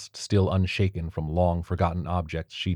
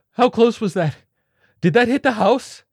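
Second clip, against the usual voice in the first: much higher, louder wail; 9 dB louder than usual. A narrator's reading. Flutist wailing in terror after the blast. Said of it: "the flutist wailed".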